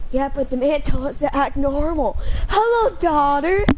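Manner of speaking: laughing. Real, not acted. Laughing while mimicking the game.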